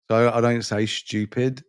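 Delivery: STUPID with a "sh-tyoo" start; pronunciation demo. Shown as a demonstration. Explaining own London accent, STUPID as "shtyoopid". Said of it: "but I also say stupid".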